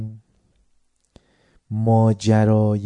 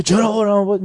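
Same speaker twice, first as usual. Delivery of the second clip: higher, louder startled why; surprised question; 8 semitones higher, 5 dB louder than usual. Retold or imitated. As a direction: ask it taken aback. Mother reacting to moving back.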